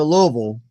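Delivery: "Louisville" run together as LOH-vul; local pronunciation. Shown as a demonstration. Giving a pro tip on visiting, local pronunciation. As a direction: say "Louisville" like a local, swallowed middle. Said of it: "you say Louisville".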